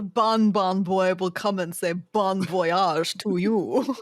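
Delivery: put-on hammy accent drifting German to Russian; mock German-Russian accent. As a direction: play a goofy shifting foreign accent. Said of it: "German to Russian within the same sentence".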